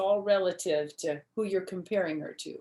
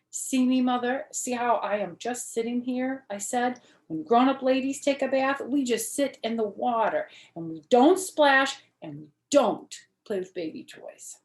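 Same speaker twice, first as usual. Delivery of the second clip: a bit high and loud, prim little lady; little girl showing her mother how ladies bathe; lightly voiced little girl; 5 semitones higher, 5 dB louder than usual. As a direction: act the proper grown-up lady in the tub. Junie B shows grown-up bath.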